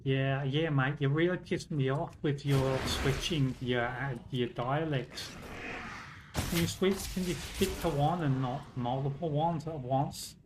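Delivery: lightly put-on Australian, mildly fed up; mock Australian accent. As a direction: grumble like an Australian mate, half-playing it. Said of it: "switch from English to Australian".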